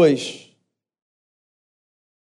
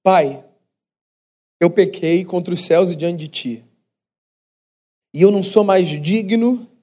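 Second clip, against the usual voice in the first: pleading son's speech. Retold or imitated. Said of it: "Esse foi o discurso que esse menino moço ensaiou".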